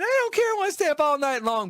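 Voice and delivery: gleeful, defiant excitement; excited. Real, not acted. Excited about staying up late.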